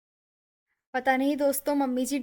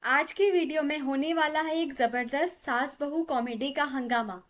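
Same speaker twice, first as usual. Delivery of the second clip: upbeat host pitching the video, louder toward the end; cheerful vlogger announcing today's sketch; energetic video intro; 3 dB louder than usual. Acted. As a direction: hype up the skit for the viewers. YouTube skit intro to viewers.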